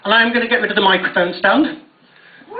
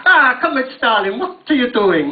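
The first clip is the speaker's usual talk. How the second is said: mock Russian accent. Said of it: "he sounds a bit German as well in the middle".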